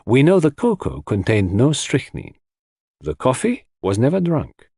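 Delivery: detective building his case point by point; lightly accented sleuth laying out a puzzle; lightly voiced Poirot. Poirot expounds the case in character.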